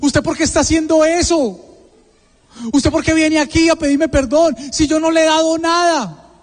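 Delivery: pregunta llorosa y aguda, imitada; llanto de madre, imitado. Retold or imitated. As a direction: imita a una madre que reclama entre lágrimas. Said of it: "empieza a llorar y me dice". (madre llorosa, en tono alto)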